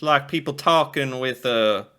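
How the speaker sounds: Texas accent. Shown as a demonstration. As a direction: draw it out in a joking Texas accent. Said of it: "Texas accent".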